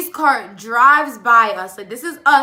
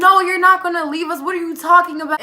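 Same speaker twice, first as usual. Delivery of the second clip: quick, higher, louder retort; indignant protest; 5 semitones higher, 4 dB louder, faster than usual. Retold or imitated. Girl tells the boys they won't leave them, indignant. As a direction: act out an incredulous objection. Acted protest at being abandoned.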